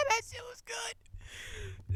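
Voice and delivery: high, breathless whisper; awed whisper. Real, not acted. Viewer savoring the episode in a whisper. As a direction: whisper it like it's too good to say aloud.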